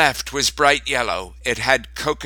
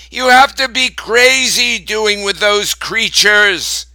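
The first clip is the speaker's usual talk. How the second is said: high, loud scolding; Grandma shouting; 10 semitones higher, 6 dB louder than usual. A narrator's reading. Grandma yells at Grandpa about the bees, loud and high. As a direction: scold him at full voice. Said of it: "she said".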